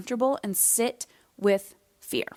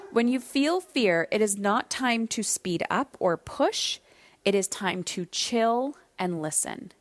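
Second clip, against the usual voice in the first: slow, calm advice; slower than usual. Shown as a demonstration.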